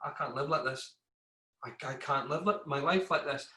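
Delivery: saying it to himself, worn down; hushed, defeated murmur; quiet despair. Retold or imitated. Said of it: "and I was like".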